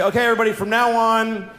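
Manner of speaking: slow, grand TV announcer tone; scientist announcement. Pretend. Scientist on TV announces that seals are renamed. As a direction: proclaim it like breaking news. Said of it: "scientists could go on TV and say".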